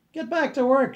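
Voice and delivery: high, loud yell of "Get back to work". Acted. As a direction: snap the order out loud. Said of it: "she yelled".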